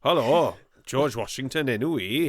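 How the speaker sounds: lilting mock Welsh accent. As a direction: play a Hamilton character as Welsh. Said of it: "all the characters in Hamilton Welsh accents".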